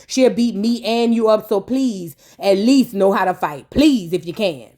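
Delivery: low, lazy smooth-talker voice; a deep-voiced playboy's pitch; Chris pitching Amy. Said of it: "was like".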